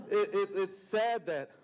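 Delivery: slow, choked half-laugh over sad words; laughing through tears. Real, not acted. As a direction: let a real embarrassed laugh break the words. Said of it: "why am I getting emotional".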